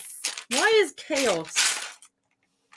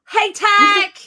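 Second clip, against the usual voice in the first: calling out; 11 semitones higher, 9 dB louder than usual. Real, not acted. Greeting chatter arriving in chat.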